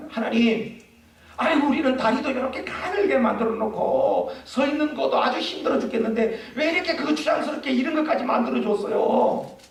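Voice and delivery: lightly voiced grumbling bird; complaining birds. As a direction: pretend bird whining to God. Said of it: "그렇게 불평을 했대요".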